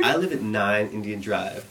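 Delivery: slowed, carefully enunciated retold answer; loud, clear voice. Friend repeats his address to a cop, mock loud and clear. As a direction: imitate a friend spelling it out clearly. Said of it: "his loudest, clearest voice".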